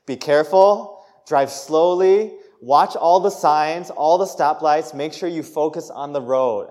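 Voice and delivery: mock motherly lecture, slow and firm; lecturing mom. Mom lecturing her teen driver over and over, imitated nagging. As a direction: imitate a mom spelling out each warning. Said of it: "she would always lecture me".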